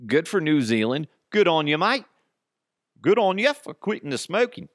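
put-on a light Kiwi accent, cheering; hearty Kiwi accent praising the country. Host praises New Zealand in a light Kiwi accent. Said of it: "I need to stop with the accent today".

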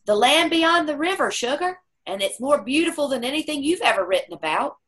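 put-on high, tender, wondering old man; awed father's vision. Dying father telling his child what he sees, high and awed. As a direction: describe heaven in wonder to a daughter. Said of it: "And he said".

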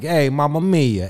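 light caricature of Italian speech; a hint of hammy Italian; mock Italian accent. Shown as a demonstration. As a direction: toss it off in stage Italian. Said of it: "we talk like this".

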